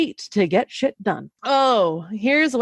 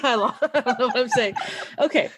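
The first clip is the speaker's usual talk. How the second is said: laughing; 2 semitones higher, faster than usual. Real, not acted. Laughing fit mid intro.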